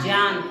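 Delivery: "ज्ञान" said jyaan; corrected jy pronunciation. Shown as a demonstration. Teacher repeating after the class, jy sound. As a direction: say "ज्ञान" starting on j, no g. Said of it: "इसका उच्चारण क्या होगा?".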